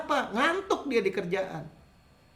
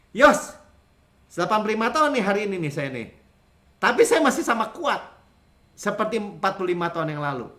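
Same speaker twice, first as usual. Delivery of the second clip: put-on vigorous old Caleb. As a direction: boast to Joshua like a fit eighty-five-year-old. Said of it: "Kalau Kaleb bilang gini". (Kaleb berseru bangga kepada Yosua, lantang)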